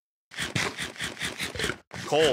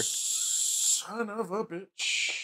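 slow curse sung through a yawn; drawn out in a long yawn; 7 semitones higher, 5 dB quieter, much slower than usual. Real, not acted. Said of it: "I sang my yawn".

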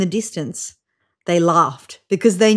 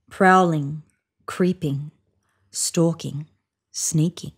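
lower, fading to a whisper; creeping fade; 3 semitones lower, 3 dB quieter than usual. A narrator's reading. Storyteller building suspense as lion creeps, fading to whisper. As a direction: sneak the words away to nothing.

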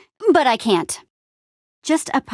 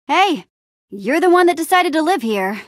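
higher-pitched, indignant comeback; defensive retort; 6 semitones higher than usual. Acted. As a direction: throw the blame back, affronted. Retorting in an argument.

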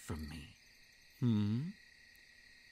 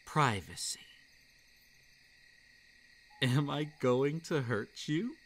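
gentle creature. Acted. Creature explains its tree home.

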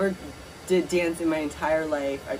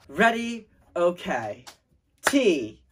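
cheerleader call; slower than usual. Pretend. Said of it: "Make up a cheer".

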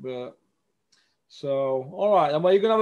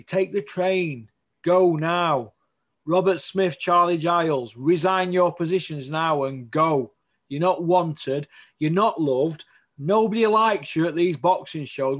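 indignant rant; 2 semitones higher, 5 dB louder than usual. Real, not acted. Host tells boxing officials to go.

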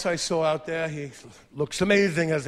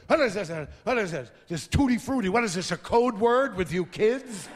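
father; 2 semitones higher than usual. Retold or imitated. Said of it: "he goes".

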